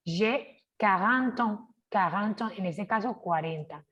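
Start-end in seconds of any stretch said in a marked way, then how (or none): 0.0-2.5 J'ai quarante ans with an open A, mouth wide; open A demo. Shown as a demonstration. Teacher showing students the open A, slowly. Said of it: "No cerramos la boca, sino que la abrimos".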